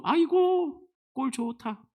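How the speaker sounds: drawn-out mock sigh, sinking away; sneering onlooker, acted out; mocking jeer. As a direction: jeer at someone else's misfortune. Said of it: "원어로 보면 조롱하고 있는 거예요".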